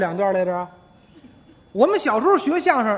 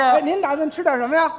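higher-pitched acted waiter voice; waiter taking an order; 4 semitones higher than usual. Waiter asking a customer's order, raised lively voice. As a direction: ask the diner brightly, projecting over the room. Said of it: "我是服务员。".

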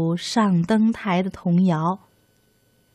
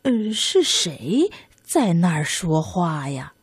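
lower, slow puzzled grandma; old granny voice; 4 semitones lower than usual. Acted. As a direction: ask slowly like a searching old woman. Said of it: "老奶奶就问了".

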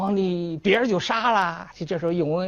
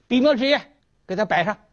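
higher, louder barked order; shouted command; 6 semitones higher, 3 dB louder, faster than usual. Acted. Emperor ordering servants to bring brush and ink, a loud higher command.

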